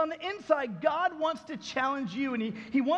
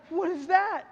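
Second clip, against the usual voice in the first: higher-pitched imitation of a startled wife; upset wife; 5 semitones higher, 3 dB louder than usual. Wife seeing the bullet on the desk, upset. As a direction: imitate her alarmed question, pitched up. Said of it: "his wife begins to cry".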